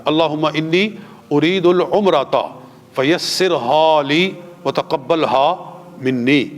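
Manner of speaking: slow measured recitation of the niyyah; recited Arabic prayer. Shown as a demonstration. Teacher reciting the intention for students. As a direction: recite slowly, word by word. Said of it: "میرے ساتھ مل کے کہہ لیں".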